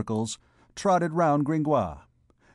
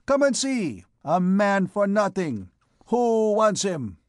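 high, projected roll-call of names; crying out; 7 semitones higher, 4 dB louder than usual. A narrator's reading. Clopin offering the condemned man to the women, calling out. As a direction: call out to the crowd like a hawker. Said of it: "cried Clopin".

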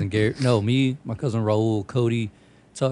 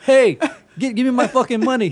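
high, louder mock yell at the thief; imitating the clerk shouting for his money; 11 semitones higher, 5 dB louder than usual. Clerk yelling, voiced in story.

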